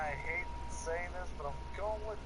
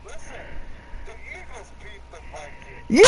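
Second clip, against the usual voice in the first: loud, slow insistence; loud slow comeback defending the pick; insistent; 8 semitones higher, 15 dB louder than usual. Real, not acted. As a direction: hammer the point home.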